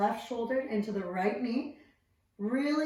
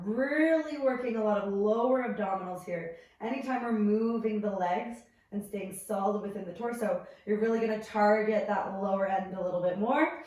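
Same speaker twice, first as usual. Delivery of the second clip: shaky voice; faster than usual. Real, not acted. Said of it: "Sorry if my voice sounds a little shaky".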